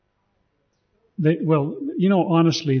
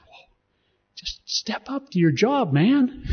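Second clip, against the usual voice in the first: much higher, slow, slangy mock aside; casual paraphrase; 10 semitones higher, slower than usual. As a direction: boil it down like a buddy. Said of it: "And he's going".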